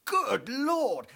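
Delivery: high, loud Good Lord; wide-eyed twit blurting it; Hastings. Retold or imitated. Hastings as useless sidekick, high loud exclamation.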